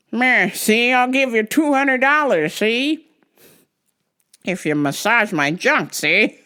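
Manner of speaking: lightly voiced creepy rich weirdo; a hint of a sleazy tycoon, see?; creepy rich guy voice. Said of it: "weirdo, rich guy, creepy voice".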